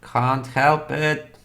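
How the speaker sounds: high, drawn-out dragon voice; dragon's refusal. Acted. Dragon refuses the pleading adventurer, slow theatrical shrug. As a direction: stretch each word in mock regret.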